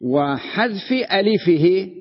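وحذف ألفه drawn out slowly, rise on ألفه; slow teacher's dictation of وحذف ألفه; slow, stressed dictation. Shown as a demonstration. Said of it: "الفتح أخف من الكسر".

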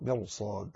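soft, low "مرصاد" with a heavy ra. Shown as a demonstration. Teacher repeating the word correctly, "مرصاد" with heavy ra. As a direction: say "مرصاد" quietly, thickening the ر. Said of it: "تفخم فيها الراء".

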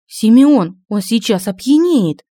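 anxious urgent warning; alarmed warning. Acted. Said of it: "встревоженно предупредила Оля".

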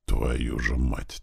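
low, slow, heavy swearing; heavy curse. A narrator's reading. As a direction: drag the curse out slowly and heavily. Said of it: "тяжко выругался Нем".

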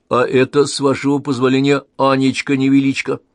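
high, loud and polite; courteous introduction. Acted. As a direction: introduce her with a courtly flourish. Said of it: "учтиво продолжал". (учтиво, с поклоном)

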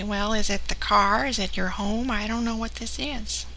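slow, puzzled, lightly voiced caller; confused old lady. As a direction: ask it slowly, a bit puzzled. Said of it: "Should I say".

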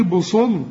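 بصل slowly with heavy s and rounded vowel; seen turned sad. Retold or imitated. Teacher mimics the student's error, seen as sad. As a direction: thicken "bosol" in بصل as a mistake. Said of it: "تنفع بصو؟".

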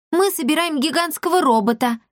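self-important. A narrator's reading. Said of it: "важно произнесла Розочка".

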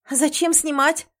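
indignant question; sharp demand. A narrator's reading. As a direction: demand an answer. Heroine demands, outraged.

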